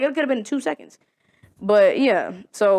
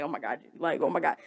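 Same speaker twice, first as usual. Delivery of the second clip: mock panic; 6 semitones lower, 11 dB quieter, faster than usual. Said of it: "I'm panicking".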